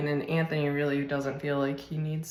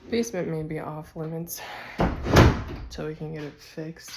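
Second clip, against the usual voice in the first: talking with a mouthful; words round a bite of food; mouth full; 5 dB louder than usual. Real, not acted. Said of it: "Sorry, I had something in my mouth".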